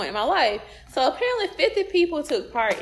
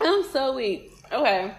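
talking around ice in mouth; words with ice in the mouth; 3 semitones higher than usual. Real, not acted. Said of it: "I got ice in my mouth".

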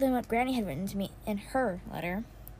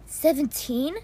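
disbelieving rising "Seventeen?", said louder; surprised question; 5 dB louder, slower than usual. Acted. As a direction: echo "Seventeen?" in astonishment. Repeats mother's number in disbelief.

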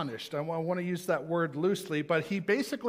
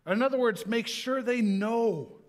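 fervent urging; 5 semitones higher, 3 dB louder than usual. Real, not acted. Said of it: "urging the congregation".

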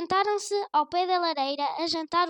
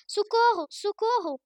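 higher, louder mock yell for help; loud cry for help; 4 semitones higher, 4 dB louder than usual. A narrator's reading. Grandmother shouting for the neighbours to hear, a mock yell. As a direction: shout it to be heard next door. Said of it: "gritava mais alto aquela parte".

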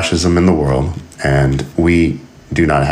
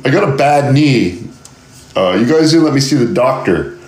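whiny conscript; 7 semitones higher than usual. Acted. Conscript complaining, acted dialogue.

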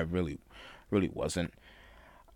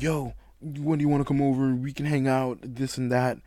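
higher-pitched, upbeat re-enacted invite; eager invitation; 7 semitones higher than usual. Inviting a friend over after moving back, eager. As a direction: act out a keen, casual invitation.

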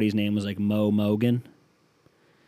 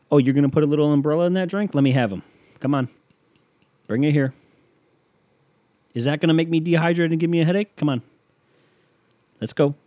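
eager drinker; 5 semitones higher, 4 dB louder than usual. Pretend.

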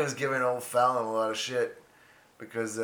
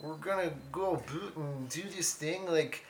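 higher, lilting mock-Canadian hoser; Canadian accent; 4 semitones higher than usual. Hoser making plans in a higher Canadian accent. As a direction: ham up the Canadian vowels. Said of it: "Let out the inner Canadian".

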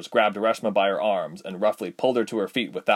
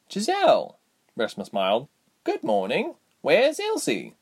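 put-on young heroine voice; 6 semitones higher than usual. Heroine greets old woman.

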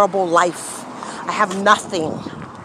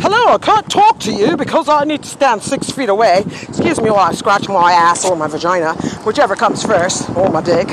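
snide mock politeness, voice pitched up. Ranting about lockdown, mocking a stranger's politeness. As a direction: sneer at people keeping six feet away. Mocking distanced pandemic people.

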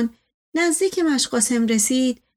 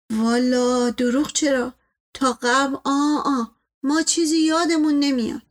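evasive servant; 2 semitones higher than usual. Acted. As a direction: dodge the master's question innocently. Servant figure dodges the question.

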